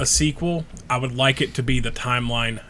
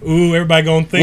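excited; 3 semitones higher, 6 dB louder, much faster than usual. Retold or imitated. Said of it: "I'm like".

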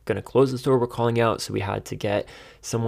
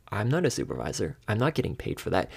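quiet grumble; 6 dB quieter, faster than usual. Retold or imitated. Grumbling aside about unpaid duties.

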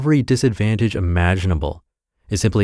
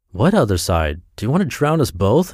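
frustrated; 3 semitones higher than usual. Acted. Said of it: "Anton says in frustration".

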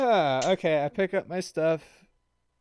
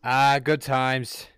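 slow, fond British reminiscing; drawn-out British rogue voice; British accent; 4 dB louder, much slower than usual. Acted. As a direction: savour it slowly in a British accent. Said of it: "It'll be British".

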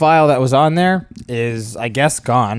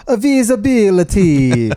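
slow, higher mock East Asian accent; mock accent returns; 8 semitones higher, slower than usual. Host thanking listeners for reviews, slipping into mock Asian accent.

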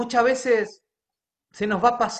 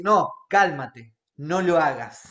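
calming voice; 4 semitones lower than usual. Retold or imitated. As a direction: hush an anxious child gently. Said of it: "Dios me vuelve a calmar, decir".

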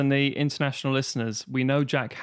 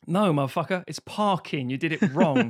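mock correction; 3 semitones higher than usual.

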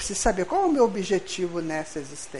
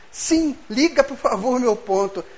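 insistent demand; 3 semitones higher, 5 dB louder, slower than usual. Retold or imitated. Retold demand to attendant.

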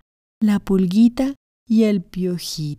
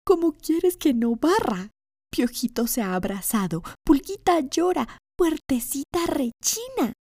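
higher, lilting broom lament; broom's voice; 7 semitones higher, 4 dB quieter than usual. Acted. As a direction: list the woes in a sing-song. Broom explains the chain.

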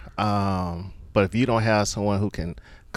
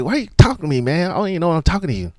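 higher, louder, rushed protest; excited high quote; 8 semitones higher, 5 dB louder, much faster than usual. Retold or imitated. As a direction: blurt it out fast and panicky. Retold movie ghost scene.

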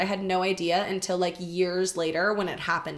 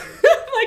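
loud high laugh; burst of laughter; 9 dB louder than usual. Real, not acted. Laughs after shocked question.

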